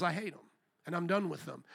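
hushed and grave; quiet gravity. Retold or imitated. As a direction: let the hatred land softly and darkly. Quoting God's hatred.

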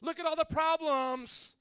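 high, effeminate mock dismay; silly Jesus. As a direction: fret in a silly, camp high voice. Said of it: "does silly Jesus talk in heaven like this?".

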